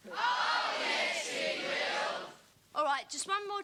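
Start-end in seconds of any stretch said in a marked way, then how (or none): 0.1-2.3 panto shout. Acted. Panto oh yes he will.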